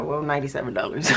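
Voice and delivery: quick, laughing sum; laughing answer. Real, not acted. Working out a payment on camera, laughing. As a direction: toss the number out with a laugh.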